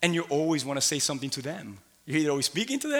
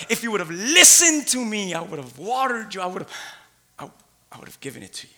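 voice of God; 5 semitones higher, 5 dB louder than usual. Acted. God voiced again in sermon.

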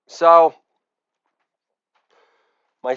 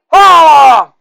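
loud higher holla, dropping at the end; shouted catchphrase; 5 semitones higher, 6 dB louder than usual. Acted. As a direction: belt out holla, pitch falling.

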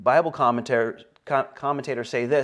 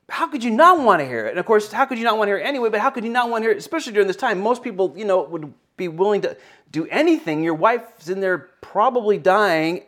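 higher, louder, pleading preacher's questions; passionate preaching; 8 semitones higher, 4 dB louder than usual. Acted. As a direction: press the congregation with impassioned questions.

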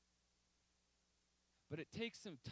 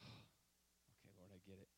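soft, breathless whisper to God; whispered resignation; 8 semitones lower, 17 dB quieter, slower than usual. Retold or imitated. Seeing the feather, whispering surrender to the Lord. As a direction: give in quietly, almost no voice. Feather found after frustration, sighing.

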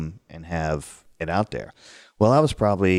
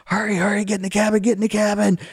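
high, hurried urging; urgent camp master; 14 semitones higher, faster than usual. Retold or imitated. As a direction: rush the kids inside, alarmed. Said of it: "he's like".

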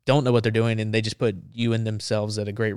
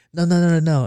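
put-on high, louder French-accented refusal; bad French accent; 7 semitones higher, 5 dB louder than usual. French reporter refusing to leave open ground, high French-accented protest. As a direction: rattle off a protest as a mock Frenchman. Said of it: "it's a bad French accent".

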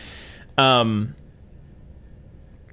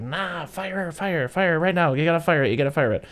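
frantic Mansley; 7 semitones higher than usual. Retold or imitated. Mansley urging the launch.

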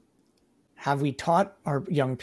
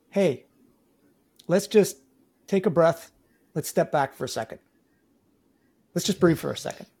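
calm reassuring. Shown as a demonstration. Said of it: "it's best to say".

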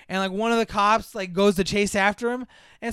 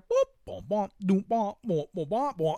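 bouncy sung boops and booms; goofy wordless tune; imitated sitcom music. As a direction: mimic silly sitcom fart music with the mouth. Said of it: "that happy fucking sitcom fart music".

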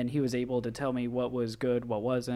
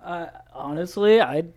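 laughing while admitting it; 4 semitones higher, 10 dB louder than usual. Real, not acted. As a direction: giggle through the words. Laughing about not remembering.

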